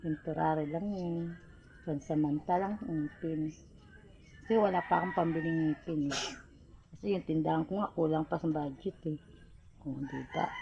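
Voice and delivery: talking through a gap in the teeth; speaking with missing front teeth. Real, not acted. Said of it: "Nabungi ako".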